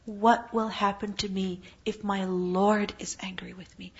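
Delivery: slow, hushed and afraid; an anxious slow whisper; fearful whisper. Acted. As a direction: whisper the dread to yourself. Fearful inner worry of sinner.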